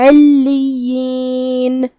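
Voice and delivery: علیین drawn out, ayn from mid-throat, doubled lam and ya, stopping on the noon; slow recited علیین, stop firmly on the noon; stopping with sukun. Shown as a demonstration. Teacher shows how to stop on علیین. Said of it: "ہمیں یہ کلمہ کو ایسے ادا کرنا ہے".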